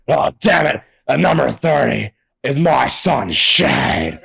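hammed-up imitation of a boss announcing his son; Vince McMahon impression. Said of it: "And then he says".

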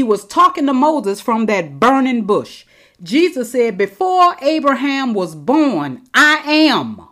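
excited. Real, not acted. Preacher repeating Jesus' words to his audience, fervent. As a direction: proclaim it with rising fervour. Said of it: "Oh, I get excited".

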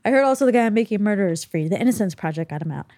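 lightly hammed-up mom, rushed fast; over-the-top mom. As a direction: rattle off mom's gossip, overdoing it. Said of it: "she likes taking it over the top".

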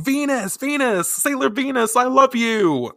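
high excited fan cries, mock-screaming; fans yelling. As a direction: squeal it like adoring fans. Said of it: "they're all yelling".

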